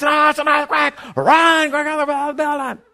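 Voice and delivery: high loud panicked yelling; hammed-up panic, yelling to get out; mock panic. Panicked congregation imagined.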